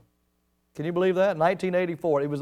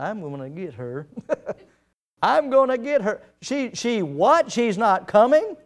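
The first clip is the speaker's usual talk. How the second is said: king's anger; 3 semitones higher than usual. Retold or imitated. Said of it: "what was going through his mind".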